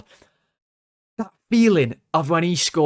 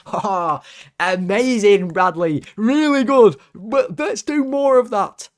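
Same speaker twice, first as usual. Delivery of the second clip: high, mocking cheer with a laugh; sarcastic praise; 8 semitones higher, 6 dB louder, slower than usual. Real, not acted. Fan mocking Bradley's botched turn with loud sarcastic cheer. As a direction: cheer him on with pure sarcasm.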